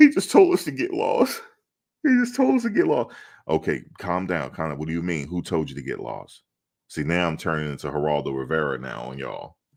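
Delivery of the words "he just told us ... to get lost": put-on very high, loud, upset, distraught girl's voice. Playing a role in a made-up scene, acting distraught and upset. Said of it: "I'm in character now".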